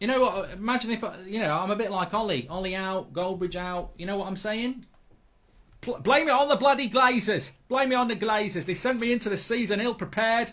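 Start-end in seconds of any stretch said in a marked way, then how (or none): 5.8-10.5 put-on Australian accent, grumbling, pitched up. Speaker riffing about FIFA, speaking in Australian accent. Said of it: "I don't know why I'm speaking Australian".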